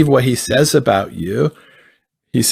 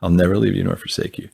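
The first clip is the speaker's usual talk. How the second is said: hushed tender promise, softer and calm; gentle reassurance; 3 semitones lower, 3 dB quieter than usual. Retold or imitated. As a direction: lean in and soothe gently. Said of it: "That's how he talks all the time".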